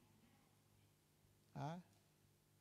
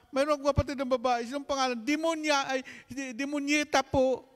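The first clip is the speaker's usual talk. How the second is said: put-on child's voice; 10 semitones higher, 10 dB louder than usual. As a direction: answer innocently in a squeaky child voice. Child answers the priest.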